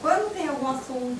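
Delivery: normal talking voice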